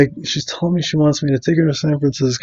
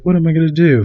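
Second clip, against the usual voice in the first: lightly imitated helpless damsel, higher pitch; a touch of fake helplessness; mock damsel in distress; 5 semitones higher, faster than usual. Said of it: "damsel in distress".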